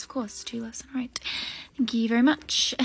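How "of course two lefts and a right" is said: under-the-breath whisper; whispered to herself. Acted. Short girl whispering the directions to memorise them. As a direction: mutter the directions to yourself.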